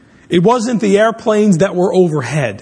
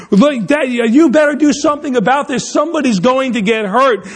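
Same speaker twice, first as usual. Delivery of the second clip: mom yelling; 4 semitones higher than usual. Retold or imitated. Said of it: "Mom yelling at Dad".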